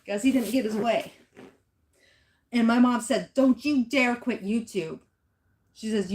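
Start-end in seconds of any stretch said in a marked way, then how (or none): 3.3-5.0 slow, loud, imitated motherly warning; retold stern warning. Mom forbids daughter to quit, imitated stern warning. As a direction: lay down the law like mom, drawn out and loud.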